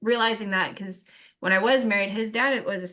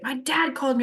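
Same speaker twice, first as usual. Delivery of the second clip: retold annoyed outburst, pitched up; retold pissed-off teen; 5 semitones higher than usual. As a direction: snap it as a mildly irritated son. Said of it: "he was so pissed off".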